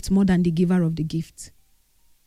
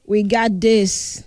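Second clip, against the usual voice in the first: slow, steady, comforting; reassuring; much slower than usual. Retold or imitated. Retelling how she comforted her grieving friend, slow and reassuring. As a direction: talk her grieving friend through it, slowly. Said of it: "I say".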